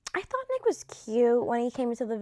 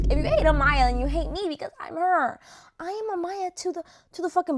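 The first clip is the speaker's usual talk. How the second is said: louder, the word hate punched hard; emphatic repeat; 6 semitones higher, 6 dB louder than usual. Retold or imitated. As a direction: hammer it home the second time. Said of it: "I always say to that, I go".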